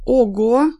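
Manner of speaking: loud, drawn-out "oho"; acted surprise; impressed exclamation. A narrator's reading. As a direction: marvel at the find. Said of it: "воскликнул Колян".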